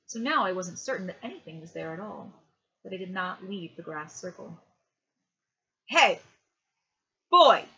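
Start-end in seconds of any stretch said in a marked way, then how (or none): 5.9-7.7 loud, higher-pitched hail; calling out. A narrator's reading. Opal miner hails the boy across the lawn, loud shout. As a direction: shout to get the boy's attention.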